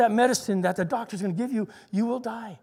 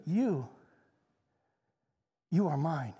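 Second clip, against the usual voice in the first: soft, low, hushed voice of God; tender near-whisper; 7 semitones lower, 8 dB quieter than usual. Retold or imitated. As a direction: say it low and tenderly, barely above a murmur. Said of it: "and then he whispered".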